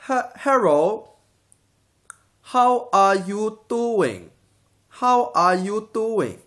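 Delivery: slow, high, loud Asian accent for pupils to copy; drawn-out Asian accent parody, teacher modelling it; mock Asian accent demo. Shown as a demonstration. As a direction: exaggerate the Asian accent, syllable by syllable. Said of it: "repeat after me".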